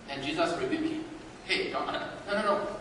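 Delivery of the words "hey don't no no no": whispered rebuke. Acted. Jesus stopping Peter.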